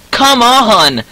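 high, drawn-out protest; exasperated high cry; frustrated outcry. Real, not acted. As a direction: whine it upward in frustration, then slide down. Frustrated outburst at the game.

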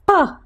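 "Pa" as one short popped syllable; letter-sound demo. Shown as a demonstration. Teacher answering how popcorn pops, short popped "Pa". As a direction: pop out a crisp "Pa". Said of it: "How does the popcorn pop?".

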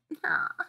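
quiet breathy giggle; soft acted laugh. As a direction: titter softly in character.

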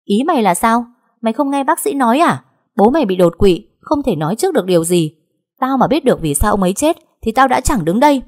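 yelling back. A narrator's reading. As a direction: shout the daughter down. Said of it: "hét to hơn".

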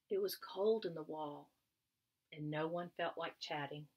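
gentle read-aloud storytelling voice; story narration. A narrator's reading. Teacher reading a story to young children, storytelling tone. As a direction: read it like a picture book to kids.

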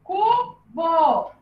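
"Cubo" split into cu, bo with a gap; syllable by syllable. Shown as a demonstration. Teacher joining syllables for the class, "Cubo" syllable by syllable. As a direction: say "Cubo" as two separate held syllables. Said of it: "a sílaba bo".

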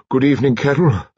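out of breath from climbing the stairs; heavy old lady greeting the nurse while panting from the stairs. A narrator's reading. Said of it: "she panted".

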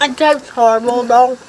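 talking with spit in mouth; words through a watering mouth. Real, not acted. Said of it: "I have spit dripping in my mouth".

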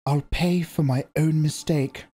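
a hint of a proud young mother; lightly voiced Jessica. A narrator's reading. Jessica answers the old woman.

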